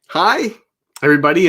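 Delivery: high, cheery hello; acted friendly greeting. Regulars comforting set staff with familiar greeting, acted friendly. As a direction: lightly imitate a friendly regular saying hi.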